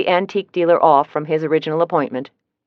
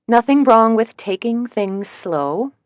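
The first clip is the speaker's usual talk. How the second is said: slow, higher call up to him; called back; 6 semitones higher, slower than usual. Acted. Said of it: "I called back".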